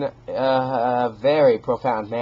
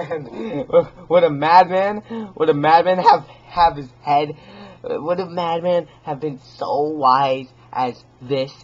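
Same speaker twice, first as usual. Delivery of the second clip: rising manic demand; mad insistence; 5 semitones higher, 7 dB louder than usual. Acted. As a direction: challenge the listener, almost shouting. Madman insists he is sane.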